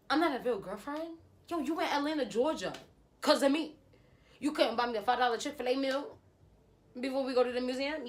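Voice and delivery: high, loud indignant retort. Retold or imitated. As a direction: fire back in high outrage.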